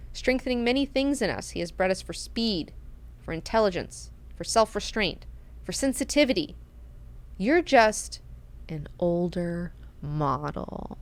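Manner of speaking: soft, spaced-out list, slowing at the end; measured put-down. Retold or imitated. Maneo giving Duncan the sickest burn, quiet measured put-down.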